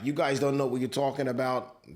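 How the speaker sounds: quick, offhand American accent impression; imitating a boxer in a mild American accent. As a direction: toss it off in a light American accent. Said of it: "Don't know why I did an American accent".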